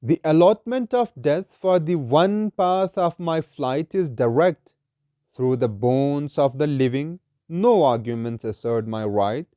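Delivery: slow, measured verse reading; solemn, deliberate poetry reading; poem recitation. Acted. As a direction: recite it slowly, drawing out each phrase.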